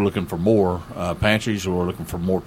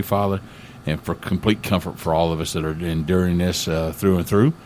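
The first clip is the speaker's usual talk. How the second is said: earnest, steady pastor's prayer voice; spoken prayer. Acted. Pastor praying for a friend's healing, earnest prayer. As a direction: pray it simply and sincerely.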